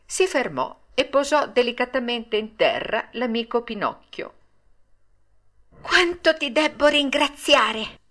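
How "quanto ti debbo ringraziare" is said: high, slow little puppet voice; high-voiced, thankful little character; grateful puppet. A narrator's reading. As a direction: give heartfelt thanks in a high voice. Pinocchio thanks his rescuer.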